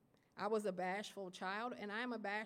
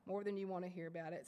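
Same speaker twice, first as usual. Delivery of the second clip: quicker repeat; faster than usual. Real, not acted. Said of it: "Y'all gonna hear".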